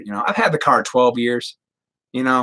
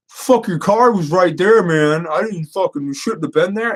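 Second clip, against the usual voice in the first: mock defensive driver; 6 semitones higher than usual. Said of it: "had he come out and been like".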